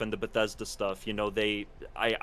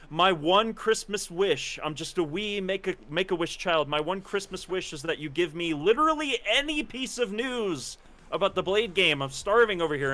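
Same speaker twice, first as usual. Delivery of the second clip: higher-pitched hammed-up begging; mock pleading; 5 semitones higher than usual. Creator begging a developer for game news, mock pleading. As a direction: plead like a starving wish child. Acting out own begging message.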